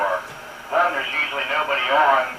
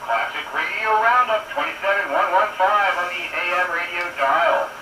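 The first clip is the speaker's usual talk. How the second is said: radio announcer; 3 semitones higher than usual. Acted. Radio show station ID.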